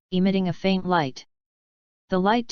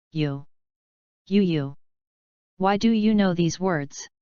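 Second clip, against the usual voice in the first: disbelief. A narrator's reading. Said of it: "Lapis' voice was full of disbelief".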